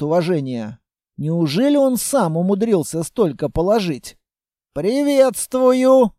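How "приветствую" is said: high, drawn-out hail; greeting called across a few paces. A narrator's reading. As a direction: call out a greeting, loud and stretched. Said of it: "окликнул нас человек".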